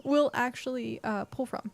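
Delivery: talking through hiccups; interrupted by hiccups between words; hiccuping. Real, not acted. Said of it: "I'm hiccuping again".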